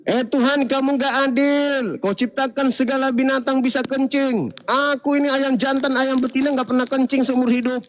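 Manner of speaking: hammed-up aggrieved plea; mock shouting chicken. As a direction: complain to God in mock outrage. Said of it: "Datang ayam juga teriak".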